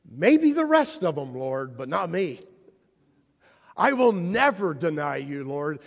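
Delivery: swagger it out, sure of yourself; bold boast. Acted. Peter insisting to Jesus he'll never deny him, boastful.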